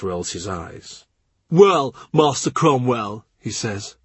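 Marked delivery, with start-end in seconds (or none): 1.5-3.2 slow, knowing drawl of a courtier; lightly voiced wry courtier; Norris voiced. Norris greets Cromwell with a lightly voiced wry drawl.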